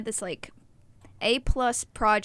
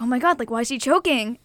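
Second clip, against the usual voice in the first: retold freaking out; 2 semitones higher, 4 dB louder than usual. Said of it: "I'm just like".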